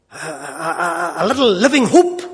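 a real lump in the throat at a small mercy; choked up. Real, not acted. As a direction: near tears over the found postal order. Moved by finding the postal order.

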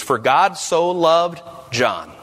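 slow verse with "John" set apart; pause, then drop "John" in deliberately; drawn-out "loved", then a weighted "John"; stress on the name. Shown as a demonstration. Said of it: "put your name in place".

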